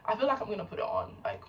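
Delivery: playful put-on American accent. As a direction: try on an American accent as a joke. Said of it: "I don't know why I switched to American accent".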